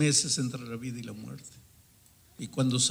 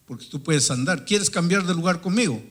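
acted angry challenge, building louder; fiery anger; 3 semitones higher, 5 dB louder than usual. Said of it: "casi botando fuego por los ojos". (reto airado que va subiendo)

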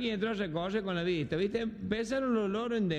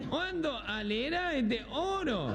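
slow nasal, garbled gangoso voice; gangoso speech impediment; 6 semitones higher, slower than usual. Retold or imitated. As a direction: swallow the consonants through your nose, higher and slow. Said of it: "medio gangoso era".

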